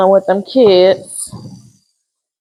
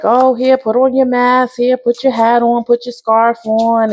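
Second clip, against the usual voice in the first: mimicking a fussing mom, pitched up; higher, doting mother voice; fussy mom; 4 semitones higher than usual. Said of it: "mom is like".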